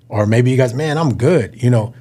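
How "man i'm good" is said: easy, more heartfelt "I'm good"; genuinely fine tone. Acted. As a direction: let the tone say you really are fine. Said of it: "Just that in the tone makes".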